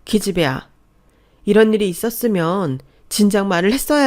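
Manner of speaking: loud, crying reproach of a best friend; tearful angry outburst. Acted. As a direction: scold her friend through sobs, loudly. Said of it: "펑펑 울더래요".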